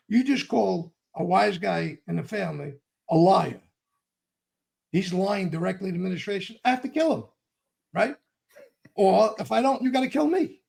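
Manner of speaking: retold angry outburst; furious retold rant. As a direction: hammer him with the rules, furious. Retold heated argument.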